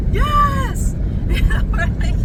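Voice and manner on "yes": very high mock distant yell; distant reply. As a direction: echo a far-off answer. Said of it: "you hear a reply".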